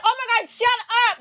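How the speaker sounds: exasperated shut up. Retold or imitated. Mocking the cast's therapy talk, exasperated. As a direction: snap back at the reality stars, fed up. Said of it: "and I'm like".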